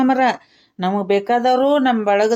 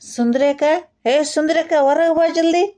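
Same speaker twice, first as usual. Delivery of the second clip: higher-pitched, impatient summons; urgent calling; 4 semitones higher than usual. Acted. Man summons neighbour woman outside, urgent calling. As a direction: call someone out of the house in a hurry. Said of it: "ಎಷ್ಟು ಗಾಬ್ರಿ ಆಗಿ ಕರ್ಲಿಕತ್ತಿಯಲ್ಲ".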